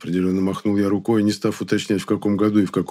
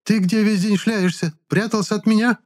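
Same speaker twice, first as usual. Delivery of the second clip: much higher woman's voice, scolding; shrill angry woman; 13 semitones higher than usual. A narrator's reading. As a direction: play an angry girlfriend scolding him. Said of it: "возмущённо заорала она".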